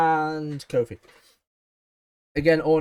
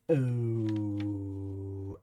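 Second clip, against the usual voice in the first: imitated crowd ooh; 5 semitones lower, 6 dB quieter than usual. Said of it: "And all you hear is".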